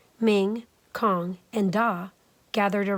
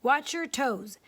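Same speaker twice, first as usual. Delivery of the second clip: higher cheeky cake voice, slow; higher teasing cake cry; 4 semitones higher, slower than usual. Acted. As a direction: taunt as you roll away. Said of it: "It cried".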